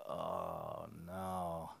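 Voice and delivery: a low, sinking groan of dread at the news; dismayed groan. Retold or imitated. Hearing God say Dublin, a low groaning oh no. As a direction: let the no drop low, dreading it.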